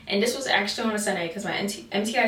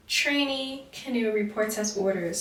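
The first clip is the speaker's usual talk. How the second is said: formal military report. Shown as a demonstration. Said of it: "you have to be like".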